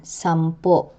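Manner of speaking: sampo with stressed final -po, cut short by glottal catch; acute glottal stress. Shown as a demonstration. Teacher repeating the example, sampo stressed last with glottal catch. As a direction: land on the end of sampo and cut it off. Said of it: "pronounced with a glottal catch".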